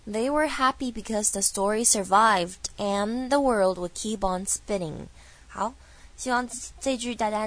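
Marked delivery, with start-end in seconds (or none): 0.1-5.1 slow, linked English model sentence; measured demonstration reading for learners; full-sentence model reading. Shown as a demonstration. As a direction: read the whole line slowly, linking the words. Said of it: "全部来看哦".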